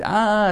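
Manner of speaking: high drawn-out "ah"; imitated scream. Illustrating wordless prayer as screaming, mild high cry. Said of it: "screaming and the".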